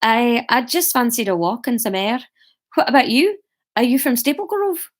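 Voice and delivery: lightly voiced Scottish accent; put-on Scottish accent, lifting on the questions. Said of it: "I forgot that Hamish was Scottish".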